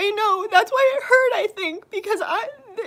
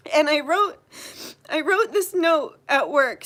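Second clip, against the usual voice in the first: crying; 3 semitones lower than usual. Real, not acted. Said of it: "That's why I'm crying right now".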